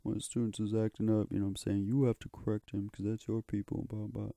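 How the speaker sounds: teacher. Retold or imitated. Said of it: "he's like".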